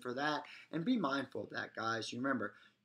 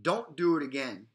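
firm; 5 semitones higher, 4 dB louder than usual. Shown as a demonstration. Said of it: "stronger and louder every time".

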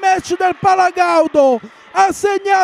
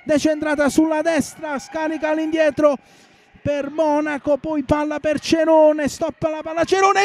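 excited commentary; 3 semitones higher than usual. Real, not acted. Rising attack, commentator builds.

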